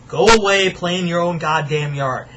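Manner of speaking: put-on sudden loud shout at the street kids; yelling go away. Ranting neighbor shouting at noisy kids, loud. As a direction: bark it out to shoo them off.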